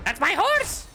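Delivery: high slow mock Rolf. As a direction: drag it out like goofy Rolf. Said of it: "Rolf impression".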